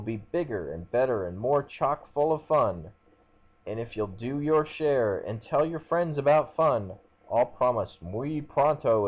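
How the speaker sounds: grand proclaiming herald; town crier. Acted. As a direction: decree it to the whole town. Mascot's mock royal proclamation.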